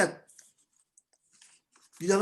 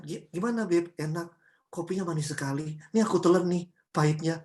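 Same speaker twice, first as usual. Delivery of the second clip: gentle forbearance; 4 semitones lower than usual. Acted. Spouse swallows bitter coffee without anger, gently. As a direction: play the loving spouse putting up with it, lightly acted.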